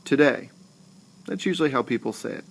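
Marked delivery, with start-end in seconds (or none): 0.0-0.5 Today, light To and emphasized day; stress on second syllable. Shown as a demonstration. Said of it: "Do you hear how the second syllable".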